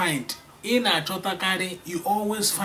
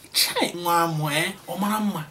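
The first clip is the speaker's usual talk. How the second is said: mother teasing; 2 semitones higher than usual. Acted. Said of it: "This is how mothers discuss with".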